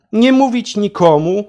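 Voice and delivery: usual speaking voice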